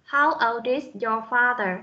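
put-on "old is" run together, D joined onto "is"; linked sounds. Shown as a demonstration. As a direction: slowly link "old is" into one sound unit. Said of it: "cô đọc nối âm". (đọc chậm, nối âm "old is")

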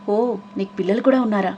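lightly voiced boss, giggly mockery; a hint of the stern boss, played for laughs; mocking the boss. Friend mimics the boss to tease, lightly voiced. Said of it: "రణధీర్ని imitate చేస్తూ".

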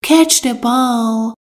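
slow, each word laid out clearly; slow model sentence. Shown as a demonstration. Teacher to Persian learners, slow and clear. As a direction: spell it out slowly for learners. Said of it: "teacher repeats the model sentence".

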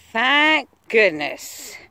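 slow, loud, near-tearful sigh of relief. Real, not acted. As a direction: let it all out, finally safe. Relief at finding people after being lost.

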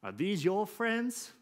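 put-on high, slow, disdainful old man voice; racist old father. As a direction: sneer it out like a bigoted old father. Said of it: "he looks at him and says".

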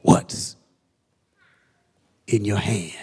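What's in your hand whispered; hushed, whispered What's in your hand. Acted. Repeat of the shouted question.

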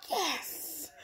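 high, loud gleeful "oh yeah"; delighted mock cheer at sister's loss. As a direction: cheer like you just won the prize. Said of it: "I'm like".

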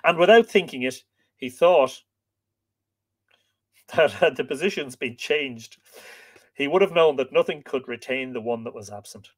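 measured, expressive storytelling voice; story narration. A narrator's reading. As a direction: read it like an old legend, stressing key words. Reads the tale aloud.

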